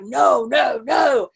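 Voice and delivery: mock shouted refusal. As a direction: shout the refusal back at her. Others resisting, shouted no.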